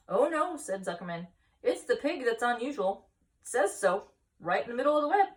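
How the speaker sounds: high, loud protest; husband insisting to his wife, loud and high; insistent. Acted.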